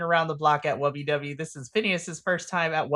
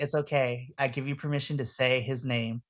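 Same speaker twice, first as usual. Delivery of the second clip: lower, softer acted voice; quiet, soothing in-character line; calm reassurance; 4 semitones lower, 6 dB quieter than usual. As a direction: gently grant permission. Q granting permission to the twins.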